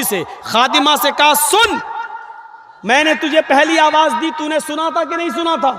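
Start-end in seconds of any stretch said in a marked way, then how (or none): 1.3-5.7 stern questioning. Retold or imitated. Prophet questions servant.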